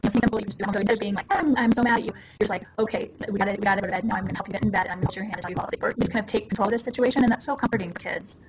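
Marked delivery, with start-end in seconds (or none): 1.3-2.1 mock anger. Parent snapping at a child at bedtime, mock anger. Acted angry parent losing control. 2.8-5.8 settled, even bedtime voice, softening at the end; calm reassurance. Shown as a demonstration. Parent settling a child for bed, calm and reassuring.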